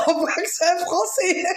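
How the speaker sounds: high-pitched words through laughter; laughing. Real, not acted. Woman teasing the president's French accent, laughing. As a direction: crack up while getting it out.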